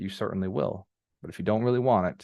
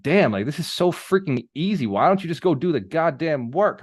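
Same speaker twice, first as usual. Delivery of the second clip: higher, exasperated outburst; mock exasperation at lazy clients; annoyed rant; 6 semitones higher than usual. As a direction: vent like a fed-up mentor. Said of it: "I started getting mad".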